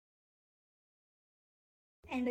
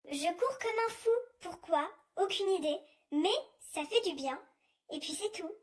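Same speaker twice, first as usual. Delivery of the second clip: lightly voiced excitable dog, pitched higher; 4 semitones higher than usual. Dog confessing it runs like mad for no reason, excitable. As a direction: play a giddy running dog in a raised pitch.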